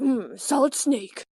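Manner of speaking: slow, lightly put-on game-hero voice; Snake. Imitating favorite game voice, lightly gruff hero. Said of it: "is Snake from Metal Gear".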